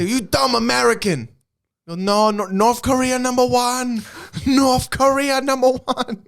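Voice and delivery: high, slow mock Asian accent; fake Asian accent. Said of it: "we would go on with fake Asian accents".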